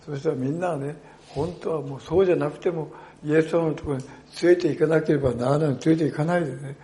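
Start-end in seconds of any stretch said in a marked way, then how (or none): none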